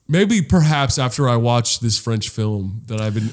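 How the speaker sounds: low, measured mock-highbrow voice; Joel. Imitating his co-host answering the cholo greeting, mock-highbrow. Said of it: "Joel's like".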